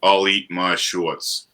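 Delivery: put-on thick Boston accent, drawn out slowly. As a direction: do the line like a Boston local. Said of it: "in thick Boston accent".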